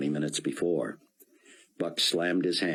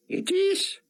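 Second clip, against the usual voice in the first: put-on higher, heavy Hebrew-accented rabbi; thick Hebrew accent; 4 dB louder than usual. A narrator's reading. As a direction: speak English through a thick Hebrew accent. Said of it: "in his thick Hebrew accent".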